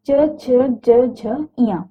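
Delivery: "च, छ, ज" drawn out very slowly, "झ, इया" fading off; palatal consonants. Shown as a demonstration. Teacher demonstrating palatal sounds very slowly. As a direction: sound "च, छ, ज, झ" with the tongue front on the palate. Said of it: "जीभ का अगला भाग तालु को छूता है".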